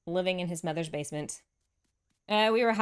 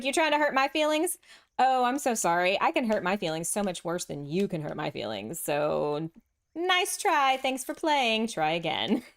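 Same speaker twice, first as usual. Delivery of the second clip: sarcastic retort. Retold or imitated. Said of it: "So it's like".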